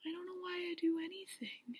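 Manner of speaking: soft, lifeless mumble; mock clueless bachelor; mumbled confession. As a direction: shrug it off sheepishly. Voicing Peter's lame answer.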